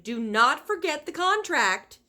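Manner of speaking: high, loud insistent shout; high, loud stern shout; shouted warning. A narrator's reading. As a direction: drive the warning home upstairs. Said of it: "her mother shouted".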